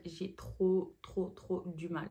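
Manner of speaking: speaking around a dental retainer; words a bit hampered by a retainer; wearing a retainer. Real, not acted. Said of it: "Excusez-moi avec mon appareil". (parle avec un appareil dentaire)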